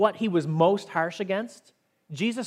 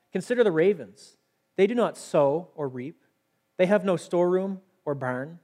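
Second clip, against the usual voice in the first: scripture reading. Acted. Preacher reading Jesus' words on worry, measured scripture reading. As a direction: read each phrase out deliberately, with pauses.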